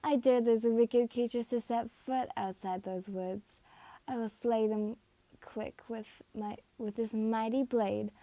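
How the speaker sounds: loud boastful swagger; haughty and cocky. Acted. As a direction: brag like a vain hero. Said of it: "with his usual haughty, cocky attitude".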